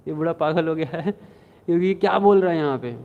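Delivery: chuckling through the angry words; amused mock outrage; laughing retelling. Storyteller laughing while voicing the angry master. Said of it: "महाप्रभु गुस्सा रहा नहीं गया".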